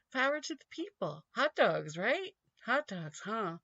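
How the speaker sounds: sarcastic cheer; hammed-up populist chant; mock rally cry. Sarcastic chant mocking Romney's regular-guy pitch.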